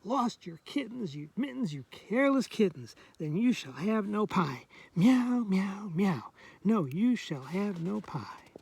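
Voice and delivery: lightly voiced scolding mother; mild storybook telling-off; mama cat scolding. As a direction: gently scold the careless kittens in rhyme. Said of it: "So that's what Mama says".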